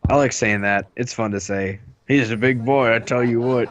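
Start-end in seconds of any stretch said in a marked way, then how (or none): 2.1-3.7 put-on big boy in a light Southern accent. Shown as a demonstration. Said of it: "And southern accents".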